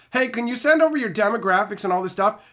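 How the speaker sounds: high, mock-sweet marketer voice. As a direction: parody a middleman circling back. Mocking marketer emails.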